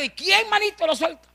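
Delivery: high playful teasing ask; teasing question. Real, not acted. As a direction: tease the congregation. Broma con el público. (pregunta burlona, aguda)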